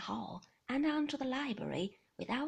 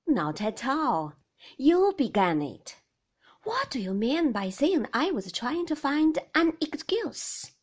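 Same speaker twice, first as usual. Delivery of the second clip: angry husband; 3 semitones higher, 13 dB louder than usual. A narrator's reading. Maxim pressing his wife in the quarrel, louder. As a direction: press her, won't let it drop.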